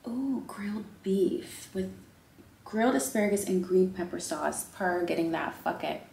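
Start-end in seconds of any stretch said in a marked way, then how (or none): 0.1-1.9 slow, whispered menu read. Real, not acted. Reading the menu to viewers, slow whisper. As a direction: savour each word in a whisper.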